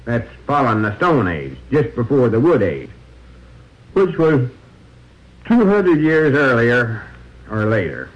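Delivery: steady droning tour guide; monotone voice. Pretend. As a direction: drone on like a dull museum guide. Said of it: "monotone voice".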